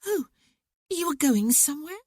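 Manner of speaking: put-on high, startled girl's voice; surprised cry. A narrator's reading. Stephanie hearing her brother is leaving, startled. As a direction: caught off guard. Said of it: "Stephanie cried".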